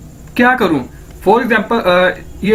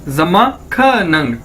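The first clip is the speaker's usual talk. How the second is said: जम्मा ख नंग said slowly, syllable by syllable; slow model repeat; 2 semitones lower, slower than usual. Shown as a demonstration. Teacher slows जम्मा ख नंग for learners.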